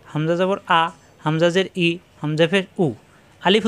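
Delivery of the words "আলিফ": আলিফ with a long, held ই sound; elongated vowel. Shown as a demonstration. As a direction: stretch the second vowel of আলিফ steadily. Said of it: "অনেক বড় করা যায়". (দীর্ঘ টানে আলিফ)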